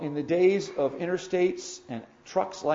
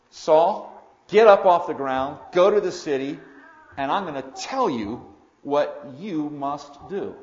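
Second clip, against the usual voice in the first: much louder, firm order; loud command; 8 dB louder than usual. Shown as a demonstration. Preacher contrasts a gentle plea with the Lord's loud command. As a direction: bark the command like the Lord. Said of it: "interesting phraseology".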